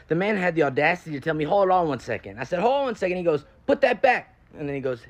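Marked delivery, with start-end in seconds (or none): 2.6-3.2 mock-affronted repeat, pitch jumping up; retold indignant questioning; incredulous echo. Caller echoes the request, affronted. 3.6-4.4 sudden higher, louder order; high-pitched mock yell; retold calling out. Worker calls out to someone in store.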